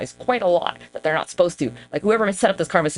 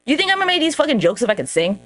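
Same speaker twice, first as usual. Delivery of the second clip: indignant, pitch jumping up at the start; comic exasperated protest; mad; 4 semitones higher than usual. Real, not acted. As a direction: argue it back, genuinely miffed. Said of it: "I'm actually really mad about that".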